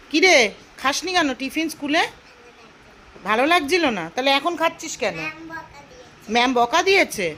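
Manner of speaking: high, loud motherly interrogation. Real, not acted. Questioning child about uneaten tiffin.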